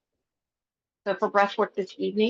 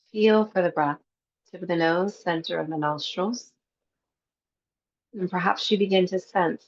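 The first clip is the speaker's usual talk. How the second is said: calm, even meditation guide with long pauses; guided meditation. Acted. Teacher guiding a breathwork class before Yoga Nidra, guided meditation. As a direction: lead them gently into the breath, leaving space between phrases.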